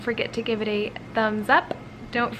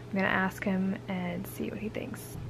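soft conspiratorial whisper; 3 semitones lower, 10 dB quieter than usual. Real, not acted. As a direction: whisper the plan. Whispered plan before husband.

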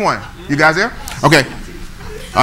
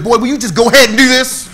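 mock stern God; 7 semitones higher, 6 dB louder than usual. God's reply in a sermon story.

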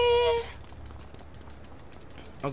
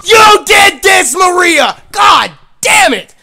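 high, loud anguished yelling; panicked screaming; 9 semitones higher, 10 dB louder, slower than usual. Real, not acted. Streamer blaming Maria as the car burns, panicked screaming. Car catches fire, mission fails.

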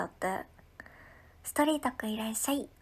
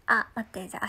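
normal talking voice

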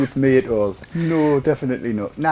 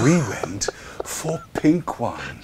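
whisper; 6 dB quieter, slower than usual. Real, not acted. Gossiping to the co-hosts.

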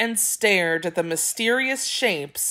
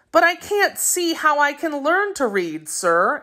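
exclaiming; 8 semitones higher than usual. A narrator's reading. Boy protesting to the typesetter he can't learn, exclaiming. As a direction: pitch jumps high in protest. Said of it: "exclaimed Jacques".

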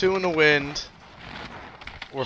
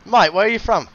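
mock English accent; 6 semitones higher, 5 dB louder than usual. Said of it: "your English accent".

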